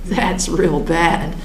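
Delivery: slow words broken by laughter; laughing. Real, not acted. Recalling her own reaction, laughing. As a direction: laugh it out, amused at yourself.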